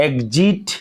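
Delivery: এক্সিট said egzit; voiced gz in এক্সিট. Shown as a demonstration. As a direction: model the gz sound. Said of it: "ইউই জ উচ্চারণ করতে হবে".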